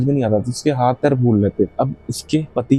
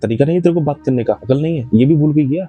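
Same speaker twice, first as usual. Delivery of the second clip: father scolding; 3 semitones higher than usual. Retold or imitated. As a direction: play the stern father telling off his rude daughter. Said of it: "उसके पिता ने फटकार दिया".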